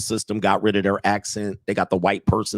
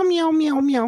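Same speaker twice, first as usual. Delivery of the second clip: string of much higher kitten meows; mock meows; slower than usual. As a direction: meow over and over like a cat. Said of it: "mostly just purring and meow".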